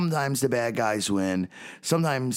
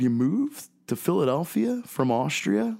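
higher-pitched retold disbelief, rising at the end; incredulous question; 8 semitones higher than usual. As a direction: ask it in mock amazement, pitch climbing. Retelling own astonished question to the Austrian.

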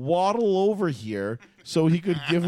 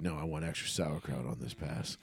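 imitating Andy Reid; 9 semitones lower, 9 dB quieter than usual. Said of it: "Andy Reid's like".

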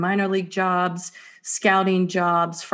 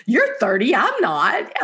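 higher-pitched playful protest; mock disbelief; 5 semitones higher, 3 dB louder than usual. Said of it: "milestones that you're like".

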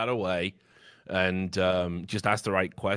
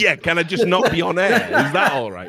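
laughing; 7 semitones higher, 7 dB louder than usual. Real, not acted. Laughing through pleading joke.

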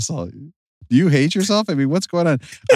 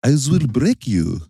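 then extras; slower than usual. Retold or imitated. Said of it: "not as scary with a French accent".

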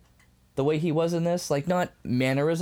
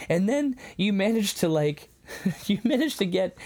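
higher-pitched, playful retelling; goofy; 6 semitones higher than usual. Retold or imitated. Host retells Quintus going through his flesh-and-bones analogy, goofy. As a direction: lightly imitate someone being goofy. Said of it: "being, like, really goofy about it".

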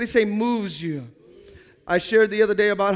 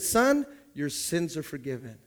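gentle Jesus; 7 semitones lower, 6 dB quieter than usual. Retold or imitated. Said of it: "he said".

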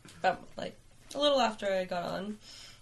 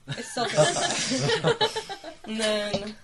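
laughing; 4 semitones higher, 8 dB louder, much slower than usual. Retold or imitated. Retold self thought, laughing.

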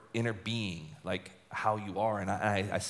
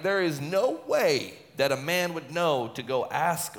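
slow, higher-pitched protest; emphatic disbelief; 5 semitones higher, slower than usual. Acted. Husband calls counsellor back in disbelief, emphatic protest.

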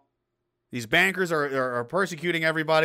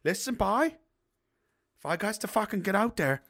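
mock-threatening half-Irish Newfoundland dad; bad Newfoundland accent; 3 semitones higher, 5 dB quieter than usual. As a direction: warn the boy in a Newfoundland accent. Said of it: "half Irish Newfoundland accent".

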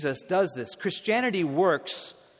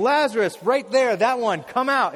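high, loud pointed summons; single out the one man and shout; loud naming call; 5 semitones higher, 7 dB louder than usual. Acted. Jesus calls only Lazarus by name, loud pointed summons. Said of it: "He has to call by name".

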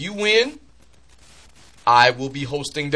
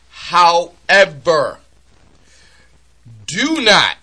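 drawn out; 4 semitones higher, 5 dB louder, much slower than usual. Real, not acted. Drawn out warning.

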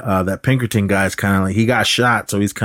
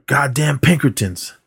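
slow, higher mock disgust; retold cursing; 6 semitones higher than usual. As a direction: imitate a cowboy cursing slowly. John curses the detectives.

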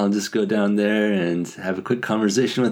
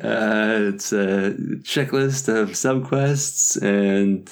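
stubborn player; 2 semitones higher than usual. Retold or imitated. Mimicking focused player.

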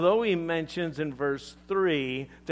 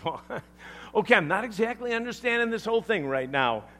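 lightly voiced bewildered listener, higher and quick; confused Nicodemus; 6 semitones higher, faster than usual. Nicodemus answers Jesus about being born again, mildly bewildered. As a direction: play a hint of puzzlement, pitched up. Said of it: "Nicodemus focuses on the how".

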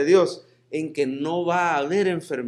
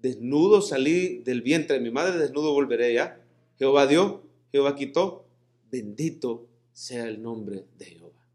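humble acceptance. Retold or imitated. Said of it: "él dijo".

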